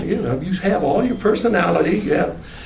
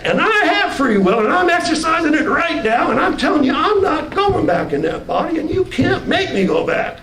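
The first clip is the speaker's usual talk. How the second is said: much higher, pressing refusal; high defiant insistence; 9 semitones higher than usual. Retold or imitated. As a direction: insist with raised pitch.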